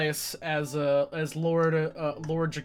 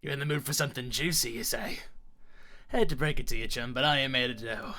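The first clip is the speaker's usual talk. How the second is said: rough bandit telling a grim story; callous raider, bragging and cold; gruff outlaw. Acted. Voices an outlaw telling his tale.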